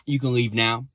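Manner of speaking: calm, low dismissal; simply said. Retold or imitated. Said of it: "Jesus just simply said".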